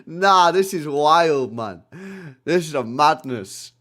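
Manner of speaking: loud, slow amazed drawl; laughing disbelief. Real, not acted. Streamer laughing at chat, slow and loud. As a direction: stretch it out in disbelief.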